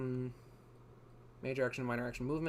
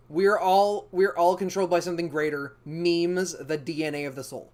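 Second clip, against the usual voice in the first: lightly voiced dramatic villain, louder; a hint of a grandiose game villain; Monsoon quote voice; 5 dB louder than usual. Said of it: "That is a real quote".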